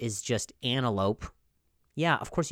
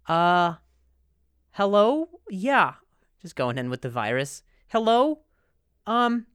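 phone voice; 6 semitones higher, 3 dB louder than usual. Pretend. Voicing infected phone.

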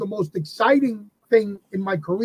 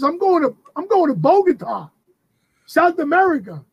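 raised pitch, eagerly breaking big news; higher, excited announcement to the wife; excited retelling; 7 semitones higher than usual. Retold or imitated. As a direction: pitch it high like you can't believe it yourself.

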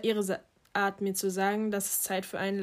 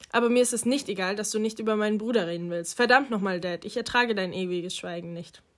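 imagined angry outburst. Retold or imitated. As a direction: let years of silence burst out at Dad. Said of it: "Wäre ich mutiger gewesen, dann hätte ich gesagt".

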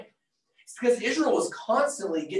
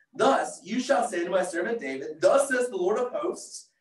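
worked up. Real, not acted. Preacher reading God's message for David, worked up. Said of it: "I'm getting very excited. Worked myself up".

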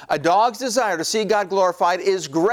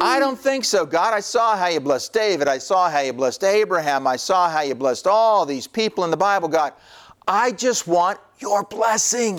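lightly acted, pleading objection to God; mock complaint, pitched up at the start and end; protesting cat; 3 semitones higher than usual. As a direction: plead your case like a put-out believer.

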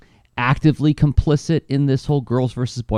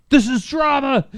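dramatic voice. Retold or imitated. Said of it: "that felt like".

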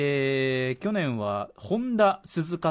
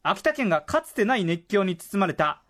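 higher-pitched, emphatic radio reading; impassioned letter reading; 5 semitones higher than usual. Acted. Host reads how the draft broadcast won the writer over, impassioned reading. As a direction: build the listener's story toward its climax. Letter builds to its heartfelt climax.

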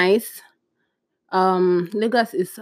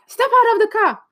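much higher, louder command; barked police order; 14 semitones higher, 4 dB louder than usual. Retold or imitated. Officer ordering the passenger out, loud command. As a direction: bark it like an impatient cop.

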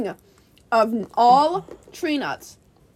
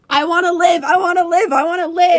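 desperate cry; 3 semitones higher, 5 dB louder than usual. Retold or imitated. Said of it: "and then I go".

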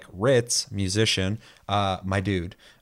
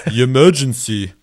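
mock alarm call; 3 semitones higher, 10 dB louder than usual. Echoing the alarm.

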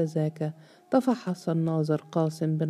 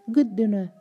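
higher-pitched, understated cry of outrage; angry shout; 5 semitones higher, 3 dB louder than usual. A narrator's reading. Overseer lashing out at Qasim, mildly shouted indignation. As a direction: throw the word back with a touch of fury. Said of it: "بأقصى قوة وصاح".

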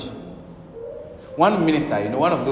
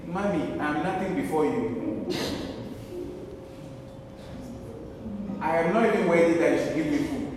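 put-on meek child; 8 dB quieter than usual. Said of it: "And that's your child talking".

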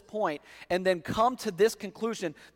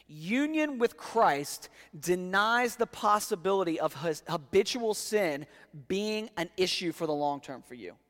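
slow repeat. Shown as a demonstration. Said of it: "Let me repeat that".

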